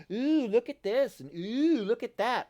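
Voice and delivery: mock-wowed gamer voice, high and loud; awed explorer. Vlogger imitating wide-eyed explorer players, awed. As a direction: gush like a tourist seeing sights.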